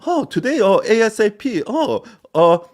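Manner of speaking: high, mock office-speak voice; prissy send-up of corporate talk; fake professional. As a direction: imitate someone putting on business lingo. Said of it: "try to sound fucking professional".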